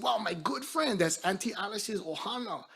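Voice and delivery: high, amazed, to a friend; surprised. Retold or imitated. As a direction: marvel at the discovery. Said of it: "like, I'm so surprised".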